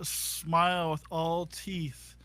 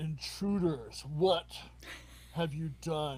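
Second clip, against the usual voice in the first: grand, declaiming proclaiming voice. As newcomers enter a hive crawling with bodies, a loud booming voice challenges them. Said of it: "you hear this loud booming voice".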